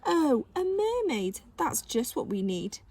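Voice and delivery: drawled mocking sneer; sarcastic. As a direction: drip with fake delight. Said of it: "little mocking voices".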